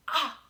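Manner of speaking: an open-mouthed "Ah" for the class to copy; demo ah sound. Shown as a demonstration. Teacher showing kids how wide the mouth opens on "Ah". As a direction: stretch "Ah" with the jaw dropped. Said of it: "Make the ah sound and see".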